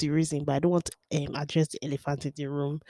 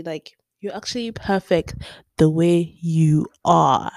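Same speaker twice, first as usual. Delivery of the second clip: louder, earnest reassurance; sincere and emphatic; 6 dB louder than usual. Real, not acted. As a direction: say it out and mean it. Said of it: "but really and truly".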